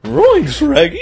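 high, silly creature impression; cartoon creature voice. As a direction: squeeze out a goofy high cartoon catchphrase. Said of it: "more like freaking Yoda".

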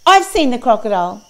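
sudden loud crocodile interjection; snapping crocodile. A narrator's reading. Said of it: "snapped the crocodile".

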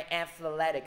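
athletic, second syllable -thle- pushed hard; teacher modelling athletic stress. Shown as a demonstration. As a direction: punch the middle of athletic. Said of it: "Nhấn vô âm tiết thứ hai".

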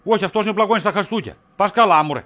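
laughing sarcasm. Acted. Husband mocks his wife's suspicion, laughing. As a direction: laugh it off mockingly.

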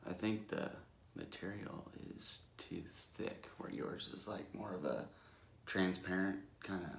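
lips framed by wet mask; talking while wearing face mask; through a sheet mask. Real, not acted. Seen 0: Man wearing charcoal sheet mask throughout; mouth opening leaves lips free.

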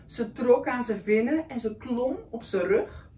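put-on lively read-aloud for a child; story reading. A narrator's reading. Reading a picture book to a young child, lively. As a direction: read the picture book warmly to a little one.

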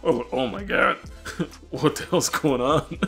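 stunned by the breathing carpet; tripping on drugs. Retold or imitated. Reenacting tripping shock.

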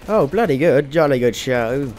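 hammed-up old-school British accent; mock British gent accent, emphatic; stereotyped British accent. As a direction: put on a jolly-good-chap British accent. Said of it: "not all British people have that accent".

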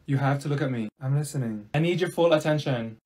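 ordinary talk

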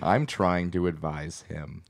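Mike Pence impression. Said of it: "you sound like you just got out of a butt".

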